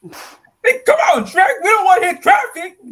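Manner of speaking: high, loud impatient call. Acted. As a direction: holler to hurry up. Donkey calls out impatiently.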